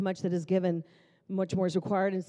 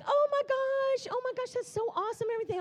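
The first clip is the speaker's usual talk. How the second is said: very high-pitched mock blubbering; imitated bawling; faster than usual. Churchgoer beside the speaker overcome by the prophecy, mock bawling. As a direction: imitate an overwhelmed girl wailing in squeaky awe. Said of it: "the girl next to me starts bawling".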